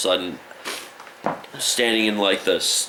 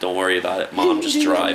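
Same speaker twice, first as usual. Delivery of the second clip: high pleading; 4 dB louder than usual. Retold or imitated. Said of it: "I thought you were, like, fourteen".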